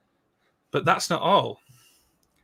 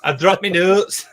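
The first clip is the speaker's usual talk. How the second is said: put-on Canadian accent; 5 semitones higher, 9 dB louder than usual. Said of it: "It's you doing a Canadian accent".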